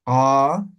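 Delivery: "Ka" with a loud breath after the k; aspirated ka. Shown as a demonstration. Teacher shows the aspirated ka in review. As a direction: puff air hard after "Ka". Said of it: "la aspirada".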